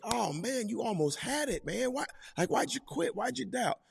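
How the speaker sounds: high, gentle, coaxing disappointment; like a parent whose child almost made it; gentle Jesus. Retold or imitated. Jesus to sinking Peter, high and gently disappointed. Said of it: "he was like".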